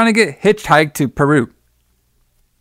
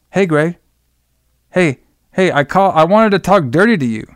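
light falsetto, teasing phone voice; man doing a woman's voice; 3 semitones higher than usual. Retold or imitated. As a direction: play the girl on the phone, breathy and coy. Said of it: "the girl's voice on there".

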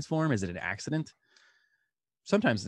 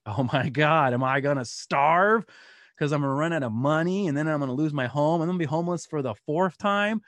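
panicked inner voice; 4 semitones higher, 4 dB louder than usual. Retold or imitated. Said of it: "you know, and panicking".

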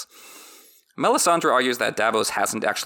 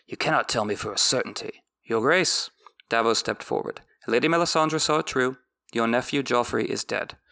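measured audiobook reading; story narration. A narrator's reading. Recapper reads the book passage aloud in a measured narration. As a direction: read the chapter like an audiobook narrator.

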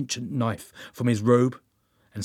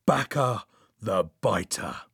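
ritual naming; 3 semitones lower, slower than usual. A narrator's reading. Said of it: "then chanted a name three times".

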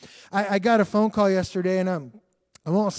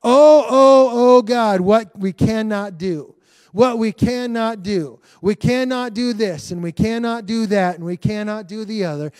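mock wailing churchgoer; 3 semitones higher, 3 dB louder than usual. Pastor mocking a church stuck on what it cannot do, in a wailing lament. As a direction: moan it like a defeated believer. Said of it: "there's too much of this in the church".

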